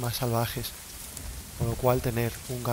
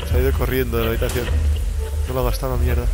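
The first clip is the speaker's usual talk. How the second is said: louder, exasperated rant at the game; annoyed outburst; 8 dB louder than usual. Real, not acted. Streamer grumbling at the fleeing granny, loud and annoyed. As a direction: vent your frustration loudly.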